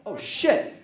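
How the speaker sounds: loud rushed panic; panicked Superman. Retold or imitated. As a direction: scramble for clothes in a hurry. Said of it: "So he's like".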